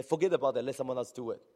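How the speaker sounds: loud indignant brush-off; mock angry quit. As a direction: throw it away in anger. Voicing an angry quitter.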